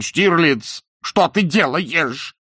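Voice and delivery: high, loud, slowly drawn-out cry; frightened wail. A narrator's reading. Terrified man crying out to his captor. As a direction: cry out in dread.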